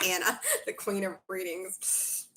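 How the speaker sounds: repeated through a real laugh. Real, not acted. Reader laughs while thanking Anna, laughing. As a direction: giggle the title back at Anna.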